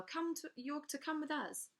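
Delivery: lightly voiced menacing thug; a hint of a threatening crook; gruff henchman. A narrator's reading. Crow henchman's demand.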